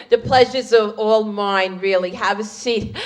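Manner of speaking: a touch of the polite hostess; lightly voiced mother-in-law. Mother-in-law welcoming her guest at Passover, mildly reserved. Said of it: "She said".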